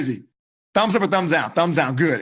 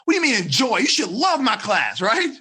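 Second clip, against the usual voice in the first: mock-indignant scolding, slowed; mad teacher. Teacher mock-scolding a student who praised class. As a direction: play the offended teacher. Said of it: "And I might be mad".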